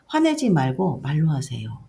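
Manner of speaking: lightly voiced child telling mom off; a hint of an insistent child; child's firm plea. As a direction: retell a child's firm request. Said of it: "아이가".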